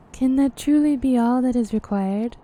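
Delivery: measured, formal fantasy character reading; game dialogue read-aloud. Acted. Character weighing up the myth of Shiva, formal dialogue reading.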